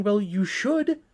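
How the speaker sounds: high-pitched mock exasperation; acted incredulous comeback, rising high; exasperated retort. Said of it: "I'm sitting there thinking".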